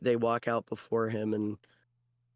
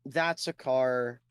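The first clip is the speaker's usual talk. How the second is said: slow puzzling; much slower than usual. Acted. Dino solving captcha slowly.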